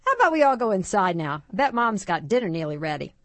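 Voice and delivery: lightly voiced dad, quick pace; dad hurrying things along. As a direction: usher everyone inside briskly.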